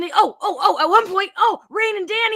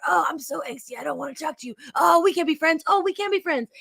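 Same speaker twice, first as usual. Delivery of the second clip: put-on angsty teen; 4 semitones lower, 5 dB quieter than usual. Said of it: "We're all really angsty".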